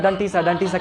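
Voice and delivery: डंटी with hard retroflex ड and ट; mistaken rote pronunciation. Retold or imitated. Teacher imitates what schools drill, wrong retroflex sounds. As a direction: mimic rote-learned डंटी, tongue curled back. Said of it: "स्कूलों में रटवाया जाता है".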